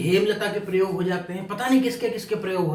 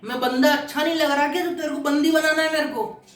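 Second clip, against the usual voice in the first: raised, indignant Punjabi retort, pitch up; hammed-up outrage, pushing back hard; mock angry Sardar; 5 semitones higher than usual. Sardar actor snapping back at the soldier on stage, mock angry. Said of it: "सरदार चढ़ गया".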